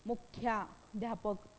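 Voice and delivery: मुख्याध्यापक slowly, with a long, heavy ध्या; slow stressed demo. Shown as a demonstration. Teacher to students, slowly showing the long joined vowel. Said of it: "दीर्घ उच्चार आहे त्याचा".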